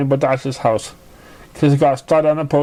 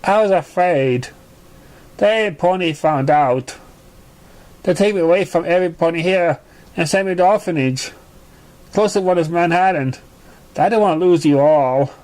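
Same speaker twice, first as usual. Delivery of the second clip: sad; 3 semitones higher than usual. Acted. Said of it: "Squirrel said sadly".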